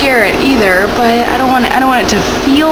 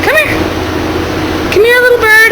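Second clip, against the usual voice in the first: coaxing a wild bird; 11 semitones higher than usual. Pretend. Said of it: "calling the bird over again".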